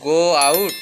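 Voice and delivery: slow, careful English phrase; slow model sentence; slow teaching model. Shown as a demonstration. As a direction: lay it out word by word. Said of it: "আমি বাইরে যাব".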